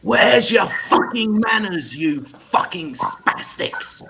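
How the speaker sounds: loud, slow, high roar at pupils; furious teacher shout. Retold or imitated. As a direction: explode at the class. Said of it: "He looks up and he goes".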